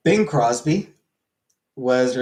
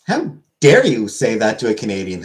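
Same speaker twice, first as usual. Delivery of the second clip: mock outrage; 5 dB louder than usual. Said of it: "I am offended".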